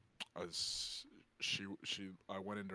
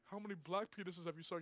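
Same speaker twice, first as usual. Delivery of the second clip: mock drunk fan; 8 semitones higher, faster than usual. Another fan asks.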